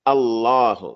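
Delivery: "Allahu" with the l pressed and held; shadda on the lam. Shown as a demonstration. Teacher showing students the shadda, firm doubled l. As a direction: hold a strong double l in "Allahu". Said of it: "the lam that has a shadda is al".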